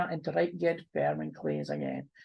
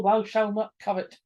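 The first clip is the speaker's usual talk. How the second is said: stern scolding; 3 semitones higher, 4 dB louder than usual. Acted. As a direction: lay down the law, word by word. Wife slams Bible, quoting commandments.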